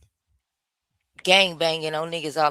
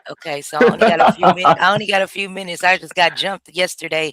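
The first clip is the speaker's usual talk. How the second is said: laughing; 5 dB louder than usual. Real, not acted. Laughing while answering.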